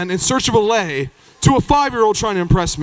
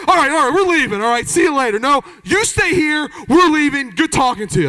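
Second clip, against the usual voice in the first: dismissive bro; 5 semitones higher than usual. Retold or imitated. Bros leaving Jeff behind.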